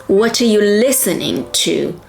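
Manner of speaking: "What are you listening to?" as one chunk, "are" reduced to "uh"; linked sounds drill. Shown as a demonstration. Teacher modelling sound automatism, "are you" linked and reduced. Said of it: "Create this sound automatism by repeating".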